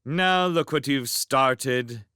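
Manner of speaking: slow, exasperated scolding. A narrator's reading. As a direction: scold him wearily. Sophie scolds Howl.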